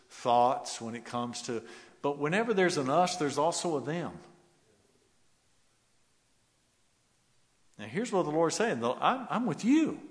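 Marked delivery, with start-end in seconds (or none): 2.0-10.0 much higher and louder, fervent; rising preaching. Acted. Preacher voicing the Lord to believers, fervent cry.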